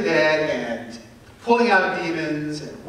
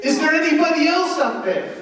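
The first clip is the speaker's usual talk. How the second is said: much higher, louder, laughing through it; laughing punchline; 12 semitones higher, 4 dB louder, faster than usual. Acted. Man on the cliff asks for someone else, laughing. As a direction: deliver the punchline half laughing.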